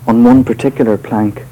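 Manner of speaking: measured, deliberate reading of a poem; poetry reading. Acted. Poet reading his poem to a live audience, measured and deliberate. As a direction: read each line as verse, letting pauses land.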